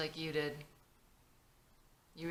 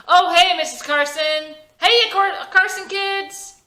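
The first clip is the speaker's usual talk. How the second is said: hiding pain; 12 semitones higher, 15 dB louder than usual. Acted. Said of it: "tries to hide the fact".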